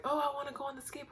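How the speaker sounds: put-on high, fast childish whine; lightly voiced whiny kid; whiny kid again. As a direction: beg quickly like a little kid. Repeats the childish whining.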